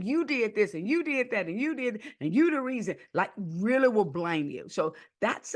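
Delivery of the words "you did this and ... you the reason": mock blaming. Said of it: "and like to blame".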